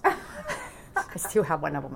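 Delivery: slow, laughing through the words; amused, laughing while talking. Real, not acted. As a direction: chuckle as you admit it. Laughing about the turtlenecks.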